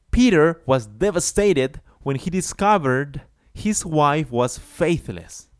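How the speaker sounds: emphatic model sentence. Shown as a demonstration. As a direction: project the sentence for class. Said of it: "let's see an example".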